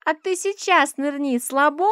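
put-on high, loud little girl's taunt; high teasing child's voice; squeaky child's dare. A narrator's reading. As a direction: squeal it like a cheeky little girl daring. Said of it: "пищит Аришка".

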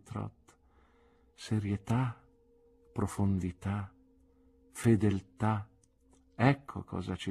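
a wise aunt weighing each word; earnest aunt. Acted. Aunt advises nephew.

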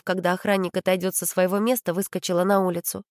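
ordinary delivery, nothing marked

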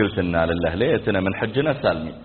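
low, soft aside to himself; rueful muttering. Retold or imitated. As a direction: mutter it under the breath in regret. Husband's regretful inner thought. (تمتمة خافتة نادمة)

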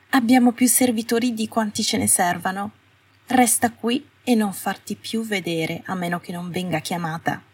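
high, cold voice slowing on the warning; cold witch. Acted. Astoria telling Hermione to stay out of sight, cold and high. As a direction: hold her at arm's length, clipped words.

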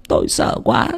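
whispered in fright; scared whisper. Acted. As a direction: breathe it out as if still terrified. Woman recalls her terror.

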